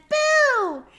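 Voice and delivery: high, loud mock scare; playful loud boo. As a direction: jump out with a boo for the kids. Mouse scares in song.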